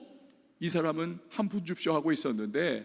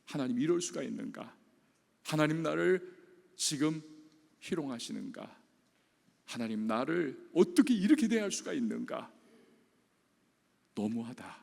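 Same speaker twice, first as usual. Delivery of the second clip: hurt complaint to God; 3 semitones lower than usual. Retold or imitated. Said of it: "중증 지체 장애인의 마음을 갖게 되는 겁니다".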